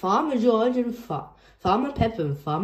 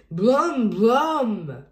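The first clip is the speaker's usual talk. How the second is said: a small boy playing tractor; toddler tractor talk; 3 dB louder, much slower than usual. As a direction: George showing how he came. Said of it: "said George".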